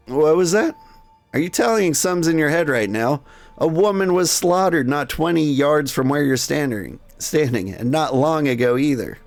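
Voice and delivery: mildly hammed-up indignation; indignant. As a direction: scold someone for not paying attention. Acted rebuke of distracted madam.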